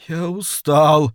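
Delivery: high, slow pleading demon; high imploring whimper; begging imp. A narrator's reading. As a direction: beg wearily, pitched high. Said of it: "умоляюще произнёс Йетеринг".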